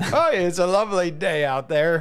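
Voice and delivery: mock Canadian warm-up chatter, played for laughs; terrible Canadian accent. Tight end mocking a Canadian accent for the camera, hammed-up Canadian accent. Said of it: "do a terrible Canadian accent".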